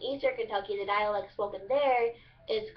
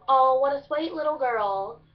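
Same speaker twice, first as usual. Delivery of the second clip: gushing higher, louder southern "sweet" as "swate"; southern drawl; 4 semitones higher, 6 dB louder than usual. Shown as a demonstration. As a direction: coo it loudly in a Kentucky drawl. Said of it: "the southern drawl".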